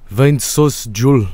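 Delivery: slow, hammed-up Finnish accent; bad Finnish accent. Streamer trying out the developer's accent, bad Finnish accent. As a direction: attempt a Finnish accent, badly and slowly. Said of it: "can't even do an Finnish accent".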